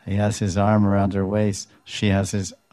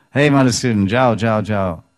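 calling out to shoo; 2 semitones higher, 5 dB louder than usual. Retold or imitated. Lalita shooing the bee away.

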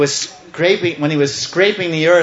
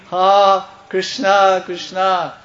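higher-pitched, lightly acted wail; mock cry of pain; 5 semitones higher, slower than usual. Mother Earth to Krishna, acted cry of pain. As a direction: call out for help as if hurting. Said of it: "She's crying in pain".

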